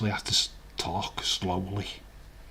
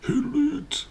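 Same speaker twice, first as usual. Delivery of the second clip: mock squeak, much higher; squeaky echo. Echoing his own words in a silly squeaky voice. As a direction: squeak it back like a cartoon echo.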